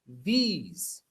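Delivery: THESE said with a long "ee"; pronunciation model. Shown as a demonstration. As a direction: draw out THESE slowly for learners. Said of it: "se pronuncia así".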